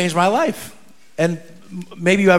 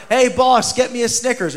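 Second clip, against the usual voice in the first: retold yell; 5 semitones higher than usual. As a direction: imitate hailing a shopkeeper. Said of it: "yell into the store".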